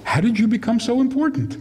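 laughing teasing question. Retold or imitated. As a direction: tease her through a laugh. Teasing the girl.

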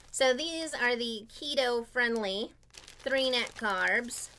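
talking through a mouthful; words around a bite of food; mouth full. Real, not acted. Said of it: "sorry for talking with my mouth full".

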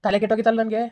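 loud contemptuous snap; angry retort. Acted. Boyfriend scorning his girlfriend, loud and angry. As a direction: spit it back at her. Boyfriend snaps back in quarrel.

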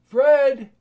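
loud high call of the name. Acted. Uncle calling his nephew, loud call. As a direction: call Fred through the door.

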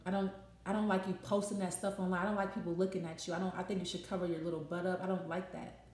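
low, soft, restrained complaint; very calm. Acted. Upset partner objects to your posts, very calm. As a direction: object calmly, keeping the voice down low. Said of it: "in a very calm manner".

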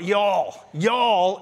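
slow Southern drawl on y'all. Shown as a demonstration. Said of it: "or in the South".

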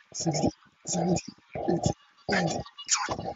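breathy, quiet count under exertion; straining push-up count. Real, not acted. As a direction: count each rep out through the effort. Counting his push-ups while doing them.

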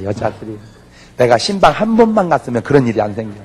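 usual speaking voice

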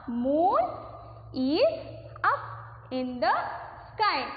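slow, spaced dictation read. Acted. Teacher dictating to her class, slow and spaced. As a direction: space the words out so they can write.

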